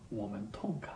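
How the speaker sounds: normal talking voice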